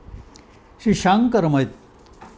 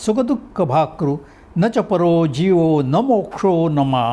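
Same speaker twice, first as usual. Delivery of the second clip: fast scriptural recitation; rapid Sanskrit recitation; 2 semitones higher, much faster than usual. Acted. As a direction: rattle off the verse fast, chanting rhythm.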